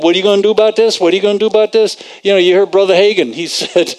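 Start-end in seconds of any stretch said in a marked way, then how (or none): 0.0-2.0 quick, relentless repeated nagging, lightly acted; flooding anxious thoughts. Preacher voicing worried thoughts that flood the mind, mild nagging. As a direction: run the questions together like mildly badgering thoughts. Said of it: "They keep flooding your mind".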